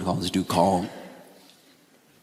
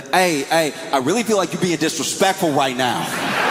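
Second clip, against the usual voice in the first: mock offended; 7 semitones higher than usual. Friend protesting.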